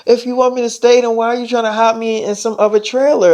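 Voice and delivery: a hint of an affronted girl; Madison, indignant. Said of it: "She's like".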